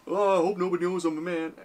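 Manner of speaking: high put-on falsetto; mock woman voice. Comedian mocks a passerby hiding he is a man, falsetto. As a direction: coo it in a silly disguised-man falsetto. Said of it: "This woman walks by".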